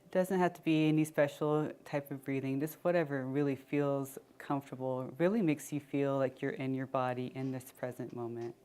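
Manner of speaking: unhurried check-in with body and breath; guided meditation. Acted. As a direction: ease them inward, leaving long pauses.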